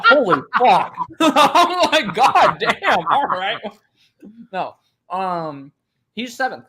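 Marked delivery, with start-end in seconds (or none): 0.0-3.6 high, loud laughing shock; laughing disbelief. Retold or imitated. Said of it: "I was like".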